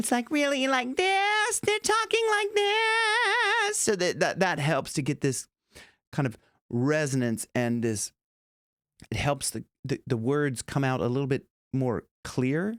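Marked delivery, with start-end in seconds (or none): 0.3-3.8 very high, slow, bright, twangy Broadway sound. Showing how the Broadway style sounds: bright Broadway twang. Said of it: "the twangy is like this kind of bright sound".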